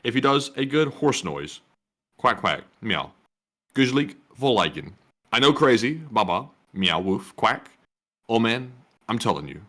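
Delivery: deadpan read of silly animal noises. Pretend. Co-host reading a viewer's super chat full of animal noises, deadpan. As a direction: read the moos and meows straight-faced. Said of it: "the way I read that added to the effect".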